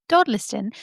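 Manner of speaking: Dodliston said in a put-on accent. Shown as a demonstration. Narrator retrying the village name Dodliston, in a put-on accent. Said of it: "I'm just gonna say it with an accent".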